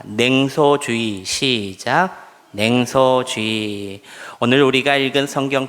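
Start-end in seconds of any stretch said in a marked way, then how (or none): 0.0-1.2 NENGSOJUUI drawn out slowly, syllable by syllable, for repeating; slow model phrase. Shown as a demonstration. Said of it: "저를 한번 따라서 합니다". 2.5-4.0 냉소주의 stretched out slowly and evenly; slow recitation. Shown as a demonstration. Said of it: "저를 한번 따라서 합니다".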